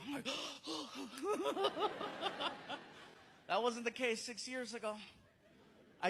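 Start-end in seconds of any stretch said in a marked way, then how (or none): 0.3-2.7 high stuttering gasp, kept soft; mock gasping. Comic telling how cops recognize him, mock gasping. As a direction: gasp in rising little bursts, softly. Imitates own reaction to cop.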